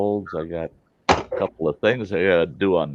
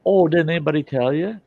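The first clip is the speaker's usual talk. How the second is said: mock surprise; 10 semitones higher, 6 dB louder than usual. Boys tease the scientist.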